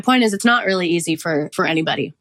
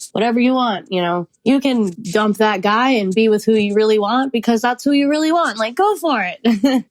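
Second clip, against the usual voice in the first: naive younger self; 5 semitones higher than usual. Retold or imitated. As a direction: play her own starry-eyed younger self cheering herself on. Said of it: "And I remember thinking, like".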